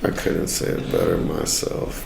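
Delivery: low, rough, gravelly rasp; just-woke-up raspy voice. Acted. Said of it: "like, a raspy voice".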